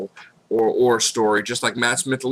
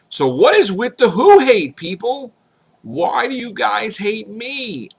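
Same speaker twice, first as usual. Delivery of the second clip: pleading; 10 semitones higher, 5 dB louder than usual. Real, not acted. Complaining to haters.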